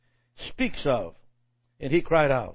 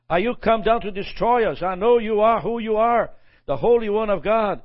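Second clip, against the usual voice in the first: demon crying out; 4 semitones higher, 3 dB louder than usual. Retold or imitated. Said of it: "So they're crying out".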